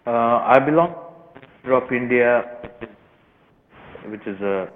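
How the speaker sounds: bad phone line, speaking away from the phone; muffled, phone held off from the mouth. Real, not acted. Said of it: "we're having a similar issue with, uh, your, uh, signal".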